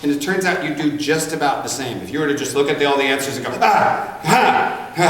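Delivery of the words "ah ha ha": short high bursts of "ah"; imitated snap-decision noises. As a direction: blurt quick mock cries, one per answer. Acting out snap answer picking.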